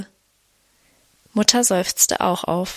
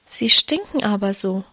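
usual speaking voice

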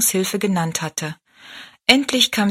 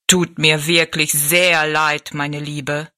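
lower, very slow, gentle giant; slow sorry giant; 3 semitones lower, 3 dB louder, slower than usual. Acted. Giant tells Rosalie he is sorry, slow low voice. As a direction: apologise slowly from far above.

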